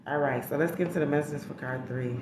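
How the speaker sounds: normal talking voice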